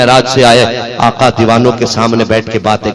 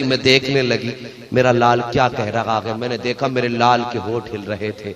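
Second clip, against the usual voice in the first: hushed storytelling; 9 dB quieter than usual. Acted. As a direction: draw them in, almost confiding. Hushed telling of the birth.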